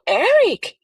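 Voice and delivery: high, disbelieving repeat of Eric; stunned echo. Retold or imitated. Father echoing the detective, stunned and disbelieving. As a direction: say the name like you can't believe it.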